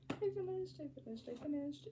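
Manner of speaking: high, bouncy repeated cry; giddy announcement. Real, not acted. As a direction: squeal it like good news. Announces finishing the book.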